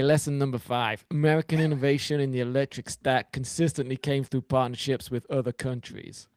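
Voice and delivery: put-on a light, half-hearted American accent; faint put-on American accent for a laugh; mock American accent. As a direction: read it as a stupid American accent, barely put on. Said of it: "can you read the next one with an American accent".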